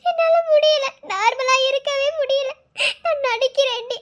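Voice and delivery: tearful, anguished outpouring; crying. Acted. Confiding dread of his leaving to Akalya, crying. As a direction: let the pain spill out through tears. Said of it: "இப்படி அழுகுற".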